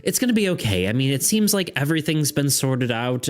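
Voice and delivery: lightly voiced healer comforting a patient; generic female voice. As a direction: reassure the patient like a kindly nurse. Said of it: "and she goes".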